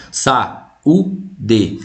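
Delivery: Saúde slowly, a and ú kept apart; syllables split. Shown as a demonstration. Teacher showing students where Saúde splits. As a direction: break Saúde at the u. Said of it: "Você separa esse U aqui".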